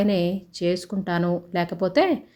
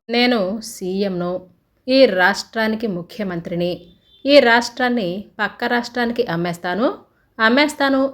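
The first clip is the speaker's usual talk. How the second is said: a man gone mad, proclaiming wildly; crazed ranting. Acted. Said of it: "పిచ్చిగా నవ్వుతూ ... అని అరుస్తూ". (పిచ్చిగా అరుస్తూ)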